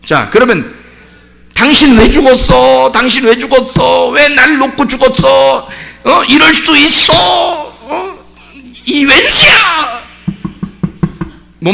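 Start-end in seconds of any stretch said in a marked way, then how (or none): 1.5-10.0 slow wailing reproach, breaking into laughter at the end; a grieving widow scolding her dead husband; acted widow's lament. Preacher voicing a widow scolding her dead husband, slow wailing reproach.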